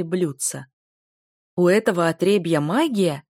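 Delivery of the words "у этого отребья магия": louder, outraged shout; shouting in disbelief. Acted. Blond bully shocked by the hero's magic, shouting. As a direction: yell it at the upstart. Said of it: "закричал Элиот".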